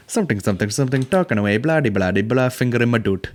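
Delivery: singsong filler in a fake Indian accent; mock Indian accent. Mimicking the woman talking away, mock Indian accent. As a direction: babble along in a put-on Indian lilt. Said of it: "this woman's talking".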